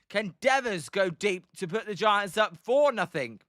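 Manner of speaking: lively live baseball commentary, lifting on the hit; play-by-play. Acted. Calling Casey Schmidt's base hit for viewers, play-by-play. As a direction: follow the ball as it drops in.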